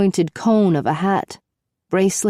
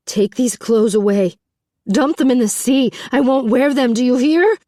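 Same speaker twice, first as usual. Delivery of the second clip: angry refusal; 5 semitones higher than usual. A narrator's reading. Beauty rejects the clothes.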